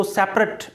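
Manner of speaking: सेपरेट as SEP-rut; सेपरेट in two syllables, SEP-rut; ending said "ut". Shown as a demonstration. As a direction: end सेपरेट on a short "rut", not "rate". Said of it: "अट बोलते हैं".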